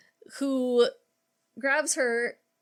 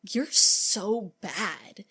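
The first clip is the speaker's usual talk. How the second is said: catty teasing drawl; much slower than usual. Retold or imitated. Catty girl quote.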